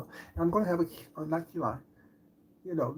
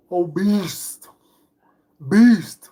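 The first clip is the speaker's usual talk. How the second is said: mock insult; 11 dB louder, much slower than usual. Insulting haters with flourish.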